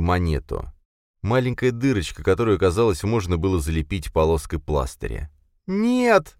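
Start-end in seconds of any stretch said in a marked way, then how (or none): 5.7-6.4 high, anguished moan. A narrator's reading. Linda moaning over Blakely's body, anguished. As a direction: moan it in grief. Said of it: "простонала она".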